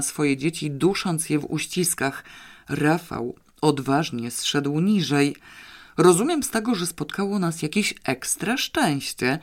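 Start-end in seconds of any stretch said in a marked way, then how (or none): 6.0-9.4 interested. Acted. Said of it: "powiedział z zainteresowaniem".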